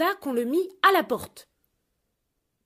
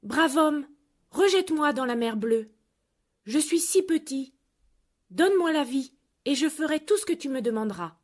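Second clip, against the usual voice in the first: little golden fish pleading; 3 semitones higher than usual. Acted. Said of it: "qui avait une voix humaine".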